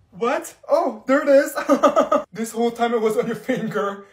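ordinary talk, nothing marked

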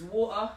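"water" with a glottal stop for the T. Shown as a demonstration. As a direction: drop the T in "water", British style. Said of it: "There's no T".

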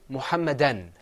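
"Muhammadan" ending on a clear n; teacher modelling "Muhammadan"; model pronunciation. Shown as a demonstration. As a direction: say "Muhammadan" firmly for a class to repeat. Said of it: "Say that with me".

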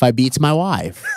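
British-tinged statesman's rebuttal; measured mock British accent; Lee Kuan Yew's accent. Founding father rebuts a question, mock British accent. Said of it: "is that a good British accent?".

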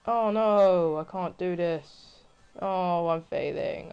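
loud cry easing into slow, drawn-out moan; despairing whine. Real, not acted. Player failing at the game, whining in despair. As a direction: draw the words out in mock despair.

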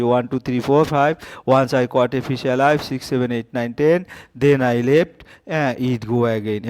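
put-on slow, sing-song counting rhyme for young pupils; teacher reads a children's counting poem aloud; nursery rhyme recital. Shown as a demonstration. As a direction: recite the rhyme to the class, drawing it out. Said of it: "কবিতাটা দেখে আসি".

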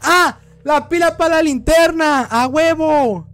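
excited find. Real, not acted. Finds battery in horror game.

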